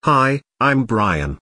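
the restored voice, measured and synthetic; Brian voice. Acted. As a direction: say it slowly in an even, robotic voice. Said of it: "giving my Brian voice back".

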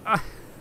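short unvoiced laugh; breathy giggle. Real, not acted. Laughing at the fake warning to riders, breathy giggle. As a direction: giggle at your own dark joke.

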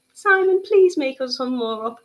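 high, loud mock plea to Simon; jokey begging call to Simon; mock pleading. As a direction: ham up a begging shout.

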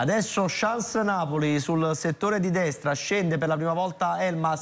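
quick, building match commentary; live play-by-play. Acted. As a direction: call the attack as it unfolds.

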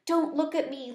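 a small pet bursting with news; excited squeak. Acted. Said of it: "I squeaked excitedly".

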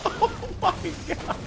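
real screaming laughter; howling laughter. Real, not acted. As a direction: lose it completely at the fart. Cracking up at friend's fart.

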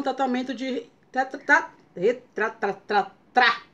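stuck on tra, repeating; tongue-tied stumble over tratamento; stumbling stutter. Real, not acted. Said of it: "tem que levar na brincadeira".

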